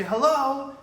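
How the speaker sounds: loud, high, energetic hello; excited hello. Shown as a demonstration. Demoing an excited customer answering the phone, loud and high. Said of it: "if they're excited".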